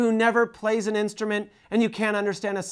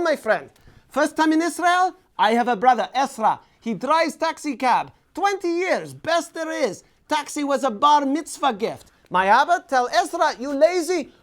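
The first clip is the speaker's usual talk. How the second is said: market vendor; 4 semitones higher than usual. Retold or imitated. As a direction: shout your wares at every passerby. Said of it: "It's all".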